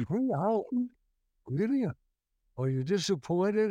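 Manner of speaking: replaying his own astonishment to the fan; retold surprise. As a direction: act amazed at the long wait, pitch up. Retelling his shocked reply to fans.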